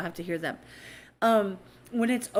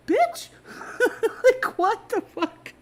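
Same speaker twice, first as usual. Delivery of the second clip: high, loud mock outburst at her daughter; exasperated shout; 14 semitones higher, 5 dB louder, slower than usual. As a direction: blow up in disbelief, squeaky and loud. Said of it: "I'm like".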